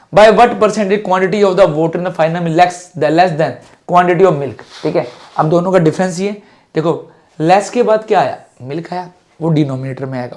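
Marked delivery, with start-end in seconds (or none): 0.1-4.6 slow reading on request. Shown as a demonstration. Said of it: "पढ़ के बताओ".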